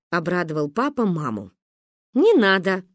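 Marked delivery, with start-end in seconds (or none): 2.1-2.8 scared refusal. Acted. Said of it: "испугалась мама".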